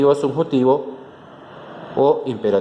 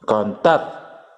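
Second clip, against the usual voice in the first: cantar with the weight on tar; stress on TAR; 4 semitones lower than usual. Shown as a demonstration. Teacher showing students the stressed syllable of cantar, stress on tar. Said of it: "El tar es la sílaba tónica".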